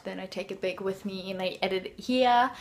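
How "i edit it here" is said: slipping lightly into British English on "here"; a hint of British, "here" without the r; accidental British accent. Real, not acted. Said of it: "I don't know why I suddenly did a British accent".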